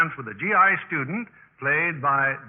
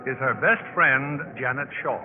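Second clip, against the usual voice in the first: gentle narration over music; radio drama narrator; story narration. A narrator's reading. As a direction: set the scene of the train journey. Narrator over music sets scene.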